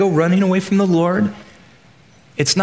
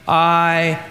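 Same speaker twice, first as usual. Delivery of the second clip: very slow, each word spelled out together; slow group recital; much slower than usual. Shown as a demonstration. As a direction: lead the room through it slowly. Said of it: "let's say in the present tense".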